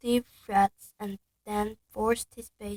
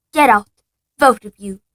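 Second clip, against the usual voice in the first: loud hoarse-ish order; croaking uncle; 17 dB louder than usual. Acted. Uncle croaking at both boys to leave. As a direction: croak them out of the room. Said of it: "croaked Uncle Vernon".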